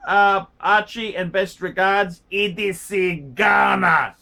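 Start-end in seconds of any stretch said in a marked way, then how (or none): 2.3-4.2 loud, slow proclaimed E D C Ghana; mock grand sign-off. Reading out the viewer's sign-off, loud slow proclamation. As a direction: boom out E D C Ghana slowly like an announcement.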